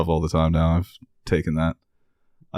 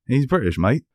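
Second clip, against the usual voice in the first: higher, mock British accent; put-on British accent; 4 semitones higher than usual. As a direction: insist like a pretend Brit. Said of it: "That wasn't Australian?".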